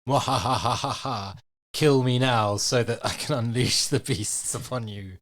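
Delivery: slow theatrical villain menace; slow, gloating evil laugh into threat. Acted. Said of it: "a sort of big evil laugh".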